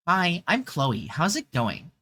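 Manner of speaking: a light hint of Marge Simpson; mild Marge Simpson impression; off-brand Marge Simpson. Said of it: "off-brand Marge Simpson".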